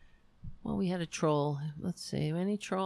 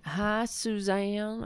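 slow, stretched-out hello; odd drawn-out greeting; 3 semitones higher, much slower than usual. Real, not acted. Greeting a viewer in chat, slow stretched hello. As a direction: draw the greeting out lazily. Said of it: "I don't know why I'm talking like that".

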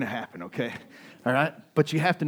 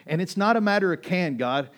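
raised, pleading cry to God; loud prayer; 6 semitones higher, 7 dB louder than usual. Retold or imitated. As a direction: call it out loud to heaven, pressing hard. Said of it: "I'm saying this out loud".

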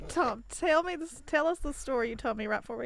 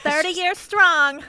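loud, drawn-out mock boast; slow, higher-pitched ironic toast; mock proud declaration; 5 semitones higher, 8 dB louder, slower than usual. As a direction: declare it slowly and loudly, tongue in cheek. Mock declaration of marital pride.

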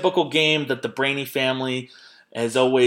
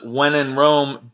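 slow, louder quoted rap line with weight on "Rome"; rapper's line; 3 semitones higher, 4 dB louder, slower than usual. Retold or imitated. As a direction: deliver "When in Rome" like a mock rap punchline, drawing out "Rome". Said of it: "famous line was".

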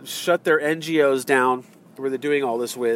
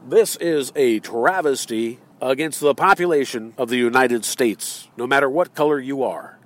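second solemn take; 3 semitones lower than usual. Shown as a demonstration. Speaker repeats the proclamation as a grave speech. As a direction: give it the full speech weight. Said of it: "How'd you like that?".

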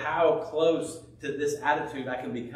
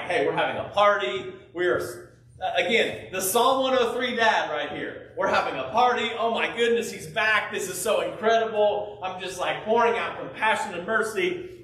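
overjoyed father; 5 semitones higher, 4 dB louder than usual. Retold or imitated. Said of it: "is like".

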